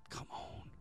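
breathy whispered aside; whispered come on. Real, not acted. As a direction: drop to a whisper. Unvoiced aside.

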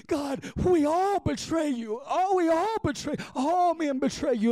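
high, anguished cry to God; retold weeping prayer. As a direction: wail it to God as if re-living the tears. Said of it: "And I'm weeping".

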